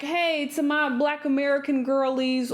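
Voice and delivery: slow, upbeat friendly address; friendly greeting. Shown as a demonstration. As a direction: greet them kindly instead. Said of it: "You couldn't be like".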